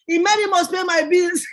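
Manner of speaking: cheeky mock quote of her own slogan; teasing. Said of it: "the first thing they say on the phone is".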